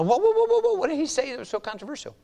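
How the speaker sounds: whoa whoa thrown up high, then coming down; excited whoa. Real, not acted. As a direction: stop everyone short in mock alarm. Reacting to the stoning.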